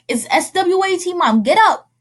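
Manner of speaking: put-on child urging mother awake. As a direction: hurry her up, half panicked. Urging mom, swat at door.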